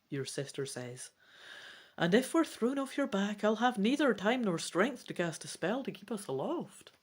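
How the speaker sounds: lively read-aloud storytelling voice; story narration. A narrator's reading. Reader voicing the dragon adventure aloud, animated narration. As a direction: read the gamebook with energy.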